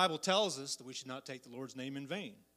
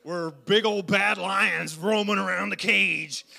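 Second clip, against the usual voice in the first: rising preacher's shout; 3 semitones higher, 10 dB louder, slower than usual. Acted. Describing lions in zoo.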